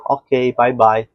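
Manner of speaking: slow, drawn-out playful farewell; teasing slow "bye bye" to a learner; joking listener. Acted. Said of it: "brincalhona, ele vai falar pra você".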